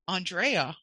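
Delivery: "Andrea" as on-DRAY-uh; others' "Andrea". Shown as a demonstration. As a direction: stress DRAY in "Andrea", broad first A. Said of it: "people will call me".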